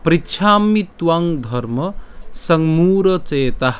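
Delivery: slow, measured Sanskrit verse recitation; shloka recitation. Shown as a demonstration. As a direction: draw out the long syllables, pausing after each phrase. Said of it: "আজকের শ্লোকটি হলো".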